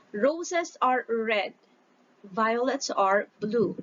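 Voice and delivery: slow, measured recitation for the class; reading a poem aloud. Shown as a demonstration. Teacher reads the poem to her class, slow and measured. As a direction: lead the class through the rhyme. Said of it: "So let's read, everybody".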